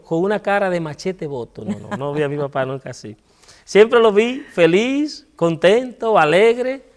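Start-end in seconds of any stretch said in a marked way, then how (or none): 3.6-6.8 slow, glowing emphasis; warm emphatic praise. Real, not acted. Son proudly recalling his always-happy father, emphatic and bright. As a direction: lift each word higher and louder with joy.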